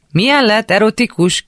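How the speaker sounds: high, questioning shout back; visszakiáltás. A narrator's reading. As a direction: shout back as if you misheard through the door. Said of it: "kiáltotta vissza Ádám". (értetlenül visszakiált)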